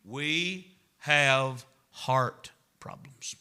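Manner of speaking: slow, breathy whisper of the key line; hushed. Acted. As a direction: lean in and whisper the point. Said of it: "slow hushed punchline".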